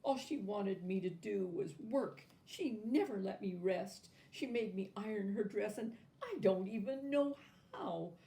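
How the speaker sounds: mild sobbing. A narrator's reading. Natasha sobbing her story to Babushka, lightly tearful. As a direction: pour out the story through tears. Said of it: "sobbed Natasha".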